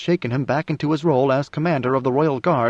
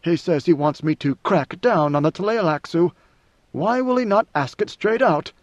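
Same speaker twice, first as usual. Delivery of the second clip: a lightly raised, measured voice of an ancient ruler musing; God Emperor's inner voice; 4 semitones higher than usual. Acted. Leto privately musing about the Tleilaxu and Duncans, wry. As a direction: muse coolly to yourself, amused and above it all.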